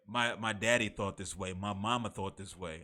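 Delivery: a light Southern accent, barely put on; hint of a Southern accent quoting his folks. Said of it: "like, a Southern accent when I was doing it".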